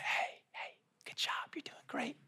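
hushed spa attendant whisper, quick; soothing spa worker whispering. Retold or imitated. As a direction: whisper like a calm spa receptionist. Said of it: "talking like someone that works at a spa".

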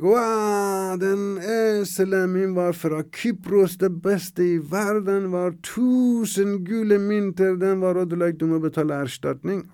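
driver screaming. Acted. Donkey driver screams for damages.

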